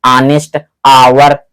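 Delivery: slow ऑनेस्ट आवर, both starting on a vowel; silent H. Shown as a demonstration. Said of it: "जबड़े के अंदर से आवाज उत्पन्न हो रही".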